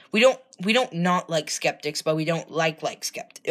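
flustered, tripping over words; trailing off in a nervous fumble; anxious stammering. Real, not acted. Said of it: "I'm spiraling".

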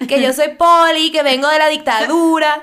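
mock Venezuelan, slowed down; Venezuelan accent. Imitating Poli on request, slow mock Venezuelan accent. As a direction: exaggerate a Venezuelan accent, taking it slowly. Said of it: "El venezolano".

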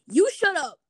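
high, loud mock yell; retold yelling. Quarrel in the dressing room, retold yelling. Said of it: "they're yelling".

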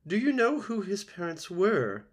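high, loud, suspicious goose voice; squawking old goose. A narrator's reading. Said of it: "squawking to the robot".

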